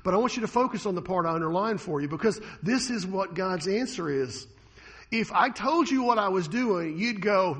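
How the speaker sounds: usual speaking voice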